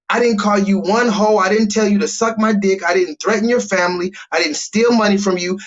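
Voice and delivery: mock-exasperated scolding; exasperated lecture. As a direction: plead with the dad in disbelief. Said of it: "look at his dad and say".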